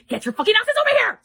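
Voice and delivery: high, loud mock command; mock yell. Emperor Moron yelling at cultivators, mock shout. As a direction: bark the order like an angry emperor.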